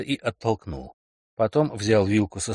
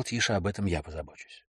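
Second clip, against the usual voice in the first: whispering; 3 semitones lower, 6 dB quieter than usual. Acted. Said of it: "Келли прошептал".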